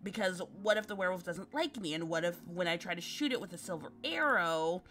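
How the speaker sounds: a nervous spiralling ramble; anxious girl voice. Acted. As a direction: worry yourself into a panic.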